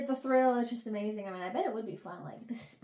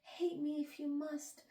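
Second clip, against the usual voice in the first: heroic; 5 semitones higher, 3 dB louder than usual. Retold or imitated. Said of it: "oh, heroic".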